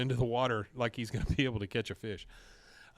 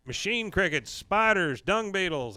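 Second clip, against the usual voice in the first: higher, punched list of gross things; lightly acted bragging kid; mild boastful relish; 6 semitones higher than usual. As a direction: show off each item proudly. Boy boasts of bugs he ate.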